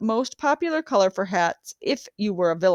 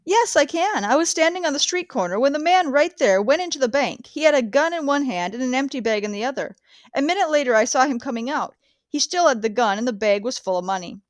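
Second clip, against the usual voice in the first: higher-pitched witness voice; witness on the stand; 4 semitones higher than usual. Acted. Miss Houseman answering the prosecuting attorney in court, a higher witness voice. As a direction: answer the lawyer plainly and eagerly. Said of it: "Miss Houseman".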